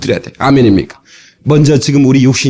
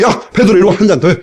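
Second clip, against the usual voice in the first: jolly host; 4 semitones higher than usual. Acted. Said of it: "막 웃고 말이죠".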